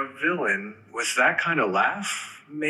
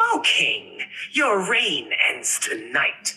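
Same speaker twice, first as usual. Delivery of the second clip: cunning fox; 3 semitones higher than usual. Acted. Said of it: "say that with the laughter".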